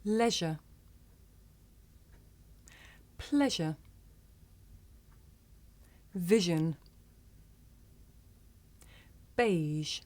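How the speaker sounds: Then. This. There. That. Other. Smooth. each said slowly with a clear voiced th; careful teacher model words. Shown as a demonstration. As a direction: model each word for learners to repeat. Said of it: "Listen and repeat".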